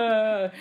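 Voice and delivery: single flat fake whimper; one-note pretend child cry; lightly imitated fake cry; mock fake cry. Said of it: "The cry goes nowhere".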